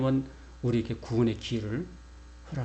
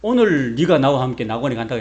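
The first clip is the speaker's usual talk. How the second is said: the quote driven out louder, in a quick preaching push; emphatic quote; 8 dB louder than usual. Retold or imitated. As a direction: hammer the promise home to the congregation. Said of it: "여기 예수님도 말씀하시잖아요".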